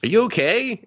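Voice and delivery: high-pitched imitation of a child; little girl. Little girl to the man behind whom she stands, high child voice. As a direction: lift it high like a concerned small girl. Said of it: "this little girl behind him is just like".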